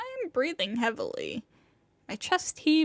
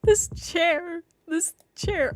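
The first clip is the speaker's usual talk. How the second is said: higher; 4 semitones higher, slower than usual. Acted. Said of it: "how many times are you going to say it".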